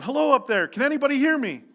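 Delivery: high, loud call upward; yelling for help. A narrator's reading. Jack hanging from a cliff calls upward, loud desperate yell. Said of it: "he starts yelling".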